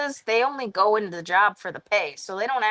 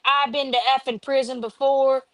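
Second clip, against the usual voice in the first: hammed-up tough-guy boast; tough patient; 6 semitones higher than usual. Patient boasting to nurses while smacking his hand, mock tough yell. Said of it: "he was like".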